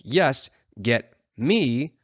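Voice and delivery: drawn out very slowly; slow, deliberate button read; slow button text. Shown as a demonstration. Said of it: "might say something like".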